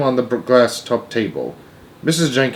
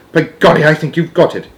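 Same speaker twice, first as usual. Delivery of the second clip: raised, delighted realisation; excited exclamation; 5 semitones higher, 4 dB louder than usual. A narrator's reading. Grandmother praising grandchild's plan, excited exclamation. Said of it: "my grandmother cried out".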